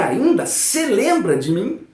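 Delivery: "ainda se lembra de mim" said slowly and clearly, "se" before "lembra"; slow teacher model of "ainda se lembra de mim"; correct form, slowly. Shown as a demonstration. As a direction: spell out "ainda se lembra de mim" with the pronoun placed before the verb. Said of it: "Aqui é".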